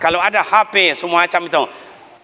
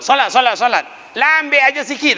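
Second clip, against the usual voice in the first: scolding elder; 7 semitones higher than usual. Retold or imitated. Elder orders child to pray.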